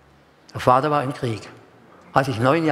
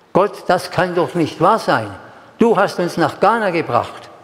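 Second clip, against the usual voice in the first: retold despairing prayer; 2 semitones higher than usual. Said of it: "Ich war verzweifelt".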